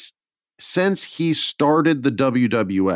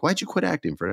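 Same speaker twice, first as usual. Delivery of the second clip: mock Hollywood snob; 6 semitones higher, 5 dB quieter, faster than usual. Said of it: "they'd be like".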